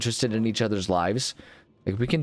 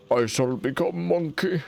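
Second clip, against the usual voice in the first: slow, higher mock-epic declaration; grand declaration; 6 semitones higher than usual. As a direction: announce it like a solemn vow.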